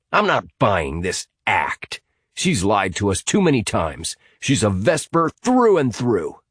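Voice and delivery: emphatic, mildly heated accusation; distrustful accuser. Acted. Hamilton telling Amy that Sinead lied, distrustful. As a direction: lean on the words, refusing to believe.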